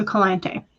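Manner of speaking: "Calante" as kuh-LAHN-tay; careful pronunciation. Shown as a demonstration. Host repeating a viewer's name, "Calante" carefully said kuh-LAHN-tay. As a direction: stress the middle of "Calante", end it on "tay". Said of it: "telling me how to pronounce it".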